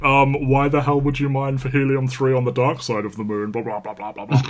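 whiny know-it-all grilling the director; internet nerd voice. Retold or imitated. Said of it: "like, internet nerd voice".

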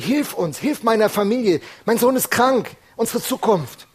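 father pleading with Jesus for his son, a loud desperate cry; desperate plea. Retold or imitated. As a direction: beg for your sick son's life. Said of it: "hat er über seinen Sohn gesprochen".

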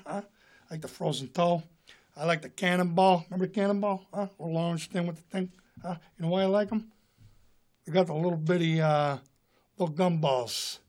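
subdued tough-guy impression; mumbled-aside delivery, peppered with little questions; Robert De Niro. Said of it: "Robert De Niro buying ice cream".

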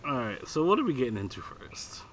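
soft unvoiced whisper. Real, not acted. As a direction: whisper the question. Whispered question.

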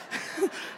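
high, soft effort grunt; mock straining noise. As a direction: strain quietly at a stuck lid. Acts out son twisting the lid.

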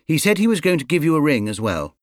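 keen little bear passing on news; Paddington the bear. Acted. Paddington telling Mrs Brown about the phone call, lightly voiced.

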